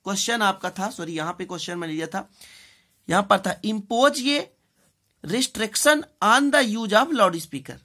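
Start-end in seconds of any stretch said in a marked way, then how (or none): 5.2-7.7 very slow, louder, word by word; slow dictation. Shown as a demonstration. Teacher dictating to class, slow and a little louder. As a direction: spell out the phrase for copying.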